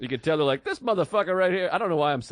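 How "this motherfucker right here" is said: slightly raised seventies Black voice. Retold or imitated. Comic mimicking the locker-room guys, seventies Black voice. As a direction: lightly imitate a seventies Black guy. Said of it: "having, like, seventies black voice".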